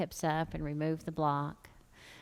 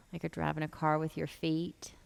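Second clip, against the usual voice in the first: whispering; 3 dB quieter than usual. Real, not acted. Quiet yoga cue, measured whisper.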